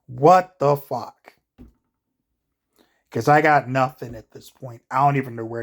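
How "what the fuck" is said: slow, drawn-out what the fuck, a bit louder; drawn-out disbelief. Real, not acted. Vlogger naming his video, slow drawn-out disbelief. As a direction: stretch "What the fuck?" out slowly like a video title. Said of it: "that's gonna be the title of this video".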